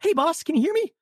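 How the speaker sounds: high, projected check-in; megaphone call. Acted. Molly checking her dazed boss can hear, mock blaring. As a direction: pitch it up like someone calling through a megaphone. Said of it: "speaking through some kind of megaphone".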